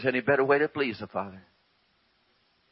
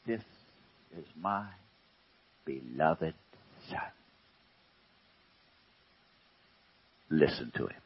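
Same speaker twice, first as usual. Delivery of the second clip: voice from cloud; 9 semitones lower, 7 dB quieter than usual. Acted.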